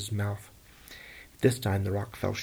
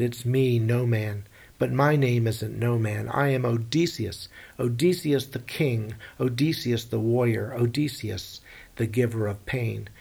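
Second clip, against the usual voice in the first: loud proud proclamation, slowing on his titles; Odysseus shouting his true name at the monster; yelling boast; 4 dB louder than usual. Acted. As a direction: announce yourself like a king to the whole shore. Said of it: "while he was yelling".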